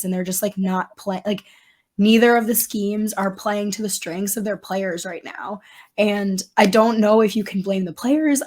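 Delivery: hoarse, raspy near-whisper; talking through a worn-out voice; lost voice. Real, not acted. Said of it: "have no voice".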